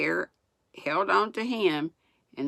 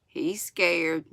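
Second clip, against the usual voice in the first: sneering. Acted. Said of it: "Pierre sneered".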